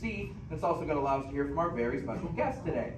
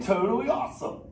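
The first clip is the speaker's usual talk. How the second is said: turtle talk demo; 6 semitones higher, 5 dB louder than usual. Shown as a demonstration. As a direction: teach the kid to say Awesome like a turtle.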